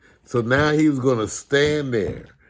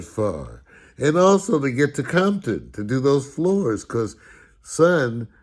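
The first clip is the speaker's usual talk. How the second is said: mock sarcastic dad; slower than usual. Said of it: "My dad would go".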